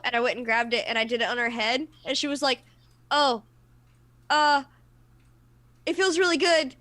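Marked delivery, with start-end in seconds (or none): 3.1-6.8 higher, louder mock-flustered delight; retold mixed relief and panic; imitating panicked friend. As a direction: act out someone pleasantly overwhelmed but panicking.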